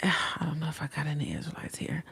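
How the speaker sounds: breathy whispered aside. Real, not acted. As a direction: whisper it under your breath. Aside after sigh, hushed.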